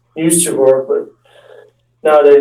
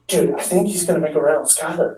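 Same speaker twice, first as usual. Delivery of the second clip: whispered; 8 dB quieter, faster than usual. Retold or imitated. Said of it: "Ronnie whispered".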